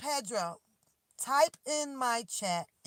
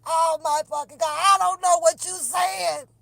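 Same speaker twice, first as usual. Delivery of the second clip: exasperated shout; 3 semitones higher, 9 dB louder than usual. Retold or imitated. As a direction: shout it in total frustration at the headphones. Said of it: "I'm like".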